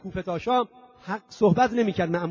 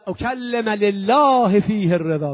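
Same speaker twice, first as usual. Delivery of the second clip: cried out; 7 dB louder, slower than usual. Retold or imitated. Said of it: "فریاد زد".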